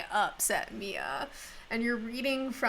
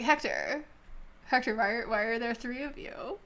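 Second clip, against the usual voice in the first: bewildered, tripping owner calling the pet snake; drugged snake owner; 2 semitones higher than usual. Acted. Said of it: "You're like".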